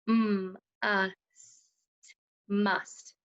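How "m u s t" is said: tapped out letter by letter. Shown as a demonstration. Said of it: "Let's tap it out".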